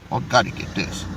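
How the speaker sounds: low and quiet, said to himself; quiet mutter. Real, not acted. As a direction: mutter it under your breath. Muttering while grabbing clip.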